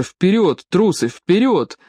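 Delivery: urging shout. A narrator's reading. Mayor urges men to break door.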